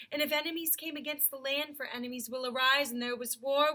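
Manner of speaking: a lightly voiced, regal Aslan; Aslan's voice. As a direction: speak it as the great lion Aslan. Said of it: "ooh, that's Aslan".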